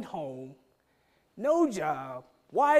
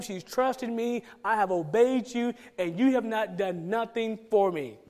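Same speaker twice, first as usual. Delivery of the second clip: insistent, mildly angry retold protest; upset with God. Obedient child arguing with God in the car, upset. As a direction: plead your case indignantly, pressing each point. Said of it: "I was really upset".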